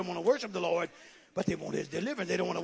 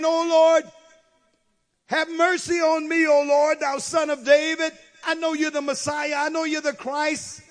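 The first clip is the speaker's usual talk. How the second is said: pleading cry; 7 semitones higher, 8 dB louder than usual. Acted. Mother's plea to Jesus voiced.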